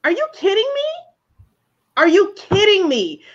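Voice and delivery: high, fast exasperated yell. Real, not acted. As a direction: yell it in disbelief. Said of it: "why am I yelling".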